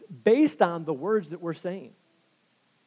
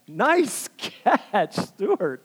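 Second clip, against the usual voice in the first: higher, louder congratulatory call-out; calling out praise; 5 semitones higher, 4 dB louder, much slower than usual. Real, not acted. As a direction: break off and cheer someone's catch. Breaks off to praise a catcher.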